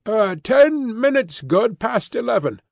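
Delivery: guard voice. Acted.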